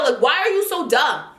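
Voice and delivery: real anger rising as she retells it; getting heated. Real, not acted. Telling viewers off the unprofessional host, heated. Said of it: "I'm getting heated just thinking about it now".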